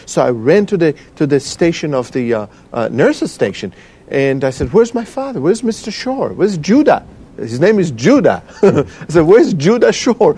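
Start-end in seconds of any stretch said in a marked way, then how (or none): 4.7-7.1 high-pitched, anxious retold demand for an answer; retold urgent questioning. Retells searching for his missing father. 9.2-10.3 high, emphatic repeated question; retold urgent questioning. Repeats his urgent question at nurses' station.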